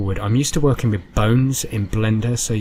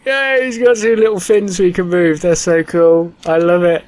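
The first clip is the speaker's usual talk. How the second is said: excited; 7 semitones higher, 6 dB louder than usual. Real, not acted. Both fins move, delighted.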